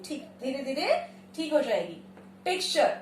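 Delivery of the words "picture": Picture as PIK-shur; correct picture. Shown as a demonstration. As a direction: say Picture with k and a light sh. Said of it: "हल्का सा श का sound".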